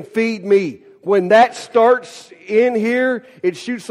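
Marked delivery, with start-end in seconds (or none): 0.0-0.8 hungry plant. Acted. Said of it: "this plant saying".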